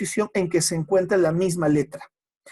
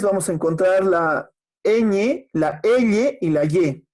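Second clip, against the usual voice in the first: slow teaching enunciation; slower than usual. Shown as a demonstration. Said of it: "Los palatales".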